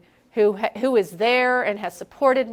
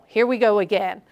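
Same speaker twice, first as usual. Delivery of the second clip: weary. Pretend. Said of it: "instead of".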